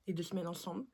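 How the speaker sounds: slushy lisp on s sounds. Real, not acted. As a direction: talk with a lisp. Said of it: "j'ai un cheveu sur la langue".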